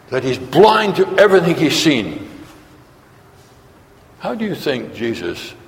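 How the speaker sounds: normal talking voice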